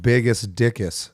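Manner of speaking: Biggest Dickus as a mock-Latin name; joke pronunciation. Shown as a demonstration. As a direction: rhyme Biggest Dickus on "-us" endings. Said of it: "It's pronounced Biggest Dickus".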